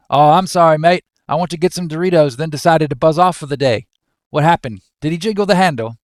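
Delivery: badly faked Australian accent, chatty and quick; attempted Australian. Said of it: "I can't do Australian".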